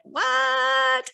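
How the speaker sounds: mock shock, long and high; shocked reaction. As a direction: stretch it out in stunned disbelief. Retold shocked reaction to plot twist.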